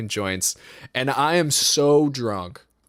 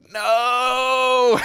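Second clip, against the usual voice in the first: blurted no; 10 semitones higher, 4 dB louder than usual. Retold or imitated. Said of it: "I was like".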